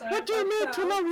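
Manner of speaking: high, strained mock outrage; hammed-up disbelief at a complaint; indignant comeback. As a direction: argue back, comically affronted. Acted angry kitchen argument.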